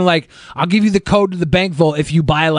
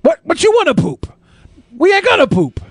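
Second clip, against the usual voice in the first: squeaky silly voice; 9 semitones higher than usual. Acted. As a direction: squeal it like a cartoon. Mocking high silly voice.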